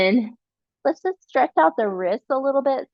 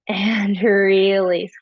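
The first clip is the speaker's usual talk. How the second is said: whispered cue; 3 semitones lower, 4 dB louder, much slower than usual. Real, not acted. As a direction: breathe the words out slowly. Yoga cue at the end of a count.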